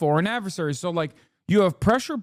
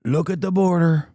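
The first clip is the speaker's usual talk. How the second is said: mock fanboy cheer; 2 semitones lower than usual. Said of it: "his dick riders are just like".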